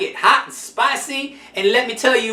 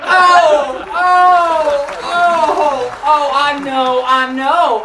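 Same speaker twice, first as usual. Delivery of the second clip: laughing through the words, real and giddy; cracking up at her own story; 5 semitones higher, much slower than usual. Real, not acted.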